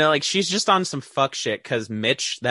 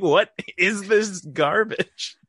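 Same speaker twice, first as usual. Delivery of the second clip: mock disgust; 5 semitones higher, slower than usual. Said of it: "And I was like".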